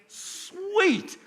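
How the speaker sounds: high, bright yelp of joy; excited. Acted. Boy reading his bank alert, thrilled and squealing. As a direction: squeal it like a kid who just got paid. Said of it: "He's so excited".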